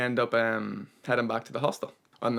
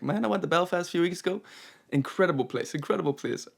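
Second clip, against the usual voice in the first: badly imitated Canadian accent; hammed-up Canadian traveller accent; horrible Canadian accent; 5 semitones higher than usual. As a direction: put on a clumsy Canadian accent. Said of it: "That was a horrible accent".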